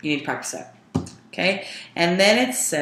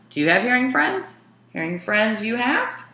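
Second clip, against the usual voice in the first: higher, quicker yes-no question with a lift at the end; questioning rise; 5 semitones higher than usual. Shown as a demonstration. Teacher demos a yes-no question for the students, higher and quicker. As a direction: ask it with eyebrows raised. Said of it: "See, my eyebrows are up".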